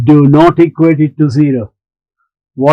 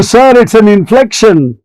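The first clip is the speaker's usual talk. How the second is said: insistent student; 6 semitones higher than usual. Retold or imitated. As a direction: push back like a pupil who knows he's right. Teacher voices a student insisting.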